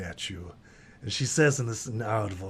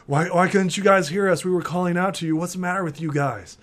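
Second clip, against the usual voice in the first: higher, louder frustrated complaint; exasperated scolding; 5 semitones higher, 3 dB louder, faster than usual. Acted. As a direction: scold them after a scare. Blueberry scolds the others.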